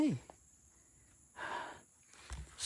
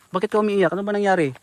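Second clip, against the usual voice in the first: louder, pushed repeat of the question; raised voice asking again; calling louder; 6 dB louder than usual. Real, not acted. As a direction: call out so she hears you. Repeats louder after no answer.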